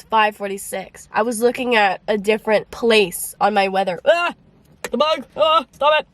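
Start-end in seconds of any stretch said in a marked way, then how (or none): 4.0-6.1 high yelps at a bug; startled shriek. Real, not acted. A bug flies at her in the car, startled shrieks. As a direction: yelp in real fright at the bug.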